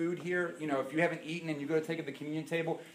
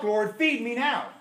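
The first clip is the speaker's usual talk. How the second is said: higher, louder, slow pleading demand; whiny demand; 7 semitones higher, 5 dB louder, slower than usual. Pretend. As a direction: beg like an impatient child. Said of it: "It's eight o'clock".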